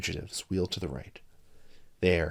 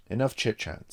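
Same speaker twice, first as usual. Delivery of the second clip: snapping; 4 semitones higher, 4 dB louder than usual. Acted. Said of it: "snapped Mike".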